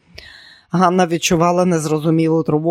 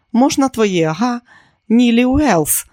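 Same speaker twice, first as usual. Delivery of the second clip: excited; 7 semitones higher, 4 dB louder, slower than usual. Acted. Neely excitedly proposing a name.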